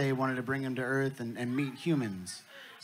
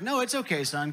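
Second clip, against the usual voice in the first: a much higher coaxing pitch; lightly voiced reassuring dad; 5 semitones higher than usual. Alien dad coaxes worried son closer, reassuring. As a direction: brush off the worry, pitched up.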